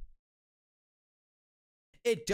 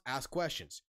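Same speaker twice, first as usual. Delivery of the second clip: normal talking voice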